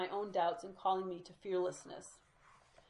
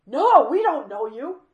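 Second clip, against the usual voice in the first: booming, higher, slow imitation of the mother; loud mock refusal; 6 semitones higher, 18 dB louder, slower than usual. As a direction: mimic her flat no at full volume. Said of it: "shakes her head and says".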